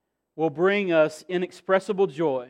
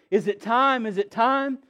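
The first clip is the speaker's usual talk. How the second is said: 1 mom, urgent; 5 semitones higher than usual. Retold or imitated. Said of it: "I hear her say".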